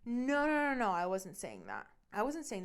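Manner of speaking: imitating him hastily taking it back; backpedaling boyfriend. Scene: boyfriend walking back his cheating accusation, mock flustered. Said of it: "Then he reels it back in".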